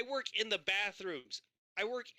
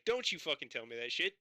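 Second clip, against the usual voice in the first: retold furious rant. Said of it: "I'm like".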